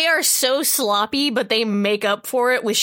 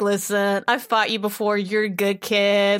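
lower, gentle leveling-with-you voice; mock-sincere elder talking a kid down; earnest heart-to-heart; 3 semitones lower than usual. Itachi levelling with Naruto about his brother, mock-earnest.

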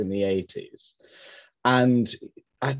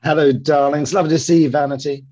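campy drag queen; 4 semitones higher, 6 dB louder than usual. Acted.

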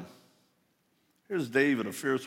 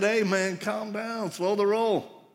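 mock firm calming; 7 semitones higher, slower than usual. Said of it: "finally said".

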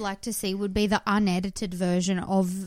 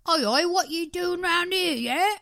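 raised, cocky English chav impression; higher-pitched mock chav challenge; mock chav accent; 8 semitones higher, 4 dB louder than usual. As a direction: put on a hammed-up British chav. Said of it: "chav are more like".

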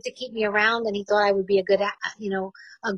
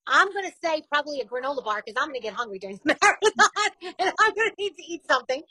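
laughing; 3 semitones higher than usual. Real, not acted. Laughing while answering the quiz.

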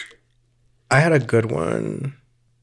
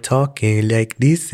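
imitated Southern drawl turning French; accent sliding into French; slower than usual. Imitating the NPR woman's change, Southern drawl sliding into French accent. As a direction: let the Southern accent tip towards French. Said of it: "then it went into a French ac".

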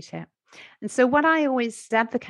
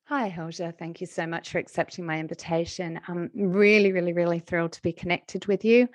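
voice note demo. Shown as a demonstration. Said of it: "speaking on the out breath".

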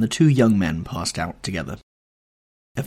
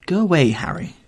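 higher-pitched, upset outburst; distressed cry; 7 semitones higher, 4 dB louder than usual. A narrator's reading. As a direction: cry out to be left alone. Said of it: "cried the lad".

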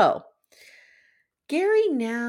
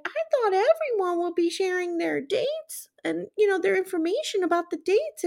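innocent sweet voice; 10 semitones higher than usual. Retold or imitated. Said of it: "she's like".

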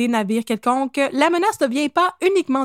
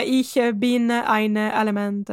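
fake German accent; 3 semitones lower, much slower than usual. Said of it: "avec mon faux accent allemand".

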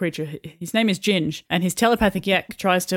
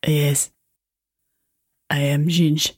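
put-on French accent; 4 semitones lower, much slower than usual. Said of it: "I cannot do a French accent".

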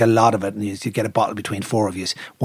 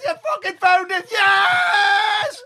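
excited cheer; much slower than usual. Retold or imitated. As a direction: cheer the find. Friend cheering find.

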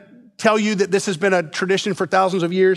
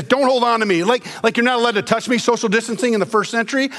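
mock misreading; 3 semitones higher, faster than usual. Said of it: "It's not what he's saying".

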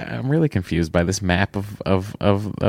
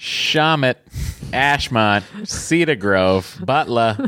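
put-on station names in a broad Boston accent; 4 semitones higher, much slower than usual. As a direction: rattle off stops like a Bostonian. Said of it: "here he goes with his Boston accent".

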